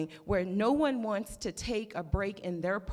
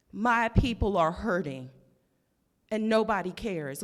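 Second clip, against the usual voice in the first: raised emotional voice; 5 dB louder than usual. Real, not acted. Emotional plea at public hearing.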